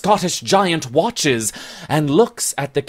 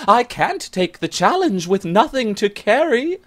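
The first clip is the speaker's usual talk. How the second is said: hurried parry; 10 semitones higher than usual. Acted. Frightened Bennet dodging the challenge: high hurried voice. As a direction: stammer it out, flustered. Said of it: "she hurriedly parries".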